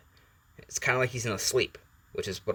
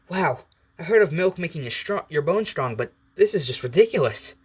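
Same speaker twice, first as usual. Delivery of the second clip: animated, higher-pitched wisecrack; Deadpool; 6 semitones higher than usual. Acted. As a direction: tease in a lively, swooping high voice. Acted Deadpool mocks Wolverine mid-fight.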